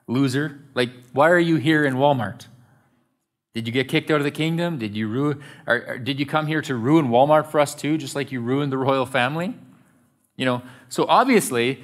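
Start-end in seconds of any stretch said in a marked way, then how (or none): 0.1-9.6 mildly taunting, put-on heckle; mocking jeer. Shopper heckles fallen royals in Walmart, mocking jeer. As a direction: jeer at them with mock indignation. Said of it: "we yell out mockingly".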